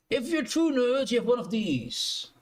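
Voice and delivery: high, slow teasing challenge; playful tease. Pretend. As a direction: bait the nerds in chat. Teasing viewers about nerd dice.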